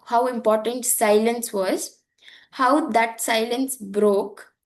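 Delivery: slow, drawn-out reading of "how that silence broke". Shown as a demonstration. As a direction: linger on "silence broke" to let it sink in. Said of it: "I gave you time to process".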